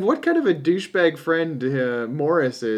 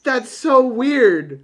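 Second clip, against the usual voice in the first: laughing; 9 semitones higher, 5 dB louder, much slower than usual. Real, not acted.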